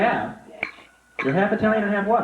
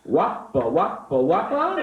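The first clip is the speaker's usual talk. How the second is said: mock magic words; slower than usual. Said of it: "Now comes a few magic Italian words".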